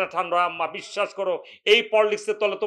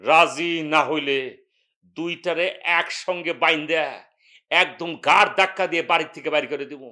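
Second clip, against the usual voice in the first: angry threat; 4 semitones lower than usual. Acted. Brother threatens to throw them out.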